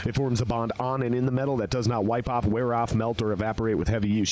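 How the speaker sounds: upbeat sponsor read, mostly his own voice. Acted. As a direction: sell the product like a host-read ad. Reading sponsor ad copy.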